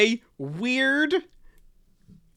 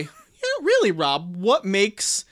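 eager co-host voice. Retold or imitated. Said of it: "a yes-anding co-host would say".

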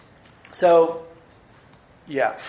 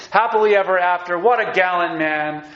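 "Happily ever after" cheered out, brighter and louder; cheering; 4 dB louder than usual. Pretend. Teacher voicing readers cheering for Boaz, cheering. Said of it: "So here you're cheering away".

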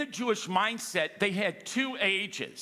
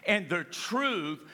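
slow, weighty reading of the verse; slow scripture reading; much slower than usual. Acted. Pastor reads John 8:32 to the church, slow and solemn. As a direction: read the verse slowly and solemnly.

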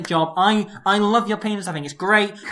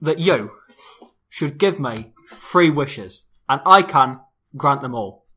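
genie; 5 dB louder, slower than usual. Pretend. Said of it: "I am old Michael Caine".

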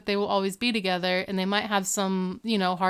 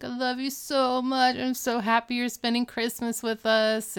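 sappy; 4 semitones higher than usual. Retold or imitated. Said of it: "Corey gets all, like, sappy".

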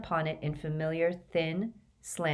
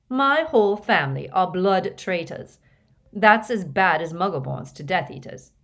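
indignant Ron; 3 semitones higher, 6 dB louder than usual. A narrator's reading. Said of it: "said Ron indignantly".

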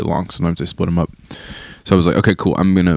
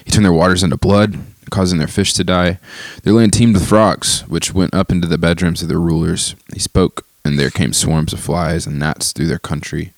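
steady reading aloud; scripture reading. Acted. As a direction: read the psalm steadily. Reads Psalm aloud.

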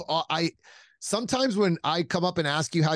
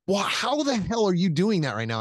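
imitated incredulous question, pitched up; mock bafflement; 4 semitones higher than usual. Squadmate questioning him after the thrown magazine, mock bafflement.

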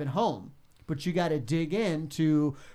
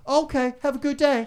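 mock bland sign-off; 10 semitones higher, 5 dB louder than usual. Host mocking a boring reply.

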